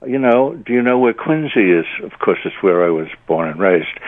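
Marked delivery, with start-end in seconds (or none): 0.1-1.9 Irish cop. Retold or imitated. Irish cop asking the tourist about Quincy, lightly voiced. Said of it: "And he said".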